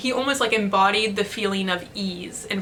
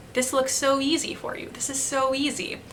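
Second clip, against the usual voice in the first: a gentle, softer voice of ease; calm inner encouragement; 4 semitones higher, 4 dB quieter than usual. Retold or imitated. Professor's remembered voice calms her on guitar, soft and gentle. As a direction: let the calm voice replace the doubt. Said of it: "replaced with a new voice".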